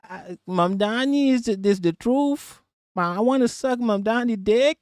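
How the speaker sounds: high-pitched mock American drawn upward; attempted vocal fry. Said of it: "I can't do the vocal".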